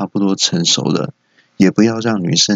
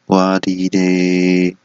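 dismayed exclamation; much slower than usual. Acted. Punchline exclamation.

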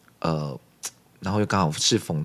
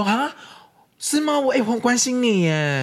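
much higher, sugary mock concern; fake concern; 4 dB louder than usual. Pestering friend fakes concern, high and hammed-up. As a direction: coo it in an exaggerated caring voice. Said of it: "然后就说".

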